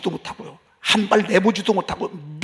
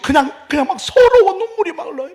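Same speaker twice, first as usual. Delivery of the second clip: excited preaching; 10 semitones higher, 3 dB louder than usual. Real, not acted. Describing sobbing with laughter.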